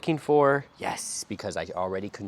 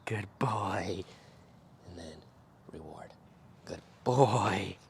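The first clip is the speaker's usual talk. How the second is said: whispered praise; slower than usual. Real, not acted. Quiet praise to puppy.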